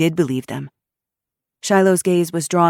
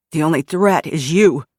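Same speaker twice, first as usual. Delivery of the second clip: snarled; 5 dB louder than usual. Acted. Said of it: "the guy snarled".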